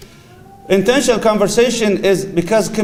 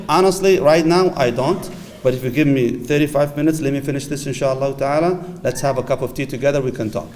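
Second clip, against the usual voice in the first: gentle reply; 2 semitones lower than usual. Retold or imitated. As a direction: kindly promise the spouse time later. Model reply to spouse.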